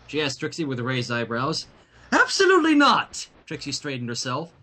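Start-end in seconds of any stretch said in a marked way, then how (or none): 2.1-3.3 flat refusal. Acted. Trixie refuses the princess.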